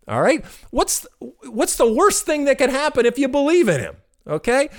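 put-on persuasive, playful reasoning with the kids, pitch rising high; coaxing parent. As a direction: talk the kids into believing, teasing and sly. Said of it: "And I said".

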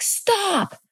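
a desperate mother's drawn cry, acted out; retold yell, pitch shooting up; imitated mom yelling back. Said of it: "my mom was yelling back".

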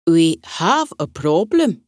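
a proud Scottish butterfly objecting; strong Scottish accent. Acted. Little red butterfly tells the meeting he is not a butterfly, strong Scottish accent. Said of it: "he said in a strong Scottish accent".

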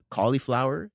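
"Cauliflower" as COLLY-flower; questioning "Cauliflower", middle vowel "ee"; cauli with long ee. Retold or imitated. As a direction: say "Cauliflower" with an "ee" before the F. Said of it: "it's not cauliflower".

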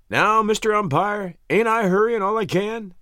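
high, drawn-out protest to the umpire; leisurely ballplayer. A narrator's reading. Spears answering the umpire as he ambles back, leisurely protest. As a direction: stretch it out high, in no hurry.

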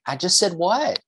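imitated teen defending himself, high-pitched; mock-innocent, puzzled teen voice; innocent protest. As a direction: insist you said nothing wrong, like a teenager. Son defends his reply as innocent.

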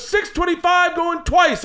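slow, high auctioneer going once; slow, high mock auctioneer; auctioneer count. Auctioneer calling bids.

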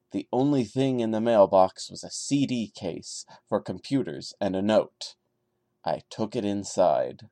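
steady storyteller read of a first-person horror tale; story narration. A narrator's reading. Reading a creepypasta aloud to viewers, calm narration. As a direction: tell it like a campfire creepypasta, calm and measured.

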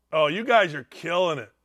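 ordinary delivery

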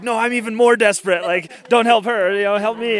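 mock desperate plea. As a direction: play the pushier racer begging for help. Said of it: "another person shows up like".

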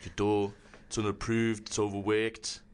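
lightly done British baker voice, low; a mild take on a stern TV baker judging bread; low, understated British judge accent; Paul Hollywood impression. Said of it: "I've been doing the Paul Hollywood".

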